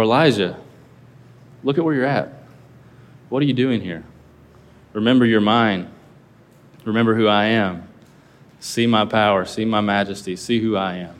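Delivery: calm, fading reassurance; tender reminder. Shown as a demonstration. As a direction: gently remind him whose he is. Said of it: "you could take that in so many different tones".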